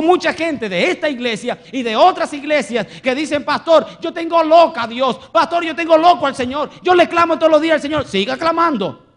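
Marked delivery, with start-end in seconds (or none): 3.4-8.1 high, loud, pressing protest; insistent complaint. Retold or imitated. Church members telling pastor they clamor daily, insistent complaint. Voices congregants boasting of constant pleading.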